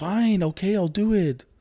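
reluctant voice, pitch creeping up very high. Retelling giving in to mom's request: pitch slowly rising. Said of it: "it slowly gets higher pitched".

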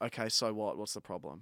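put-on dry, awful, curt, dismissive tone. Retelling own reply to the guy scanning tickets: imitating own dry, awful tone. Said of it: "just dry and awful".

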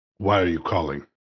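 low, hushed, upset voice. A character in a story answers a phone call, upset and hushed. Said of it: "a very kind of upset, hushed tone of".

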